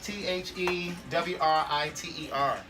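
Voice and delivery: spelled out. Shown as a demonstration. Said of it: "The writer".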